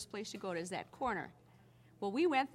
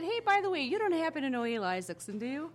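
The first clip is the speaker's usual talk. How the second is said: excited retold question; 7 semitones higher, 8 dB louder than usual. Teller quotes own eager question.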